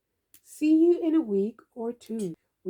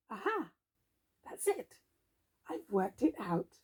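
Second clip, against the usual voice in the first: quiet discovery; 8 dB quieter than usual. Acted. Eureka moment read quietly.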